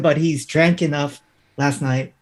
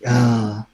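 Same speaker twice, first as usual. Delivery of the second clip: zombie groan; 5 semitones lower than usual. Acted. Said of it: "doing zombie noises at this point".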